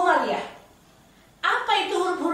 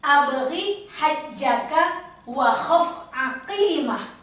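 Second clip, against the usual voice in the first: slow recitation; 2 semitones lower, much slower than usual. Shown as a demonstration. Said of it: "Umi selalu menyingkatnya".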